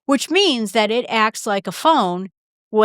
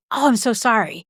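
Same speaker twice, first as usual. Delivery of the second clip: eager chatterbox. Shown as a demonstration. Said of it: "I'm the question machine".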